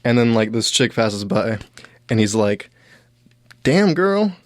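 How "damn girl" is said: mock smooth catcall, pitched up; tossing a cheesy line at a passing girl; catcalling guy.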